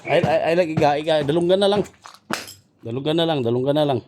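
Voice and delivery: very loud, repeated shouted orders; urgent shouting. Acted. Captor directing the others at the captive's ear, loud shouting. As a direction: shout it insistently at full volume.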